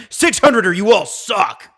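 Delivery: high, stretched mock scream; imitating Steve's yell. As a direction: draw it out high like a ranting friend. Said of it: "cue the Steve saying".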